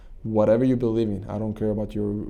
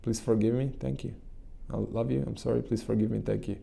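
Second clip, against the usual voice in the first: a softly spoken loving prayer that fades; gentle devotional whisper-soft prayer; soft prayer, fading; 4 dB quieter than usual. Shown as a demonstration. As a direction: murmur it gently to the loving energy. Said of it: "and say".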